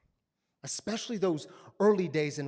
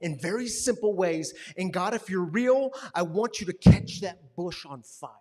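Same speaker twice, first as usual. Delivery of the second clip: angry prayer; 6 dB louder than usual. Retold or imitated. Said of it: "And he was so angry".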